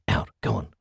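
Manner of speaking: rough crowing neighbour voice, shooing; lightly voiced smoker shooing the cat; smoker's voice. A narrator's reading. Neighbour shooing her cat out, crowing smoker's voice. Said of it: "crowed a smoker's voice".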